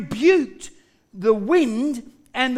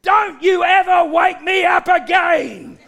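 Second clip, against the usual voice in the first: stern, raised-voice scolding; threatening command; 4 semitones higher, 4 dB louder than usual. Acted. Jesus rebukes the storm after his nap, threatening. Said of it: "Jesus spoke with a threatening".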